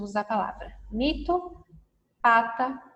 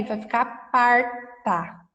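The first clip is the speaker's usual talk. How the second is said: slow and clear; 4 dB louder, slower than usual. Shown as a demonstration. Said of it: "Se eu colocar o R".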